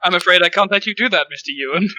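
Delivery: failed attempt at a Swedish accent; deliberately not Swedish, plain English voice. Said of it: "in a very distinctly not Swedish accent".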